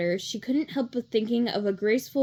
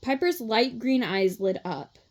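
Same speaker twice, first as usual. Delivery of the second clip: usual speaking voice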